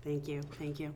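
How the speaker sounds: giggling through thanks; trying not to laugh; stifled giggles. Real, not acted. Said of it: "she's giggling over there trying not to laugh".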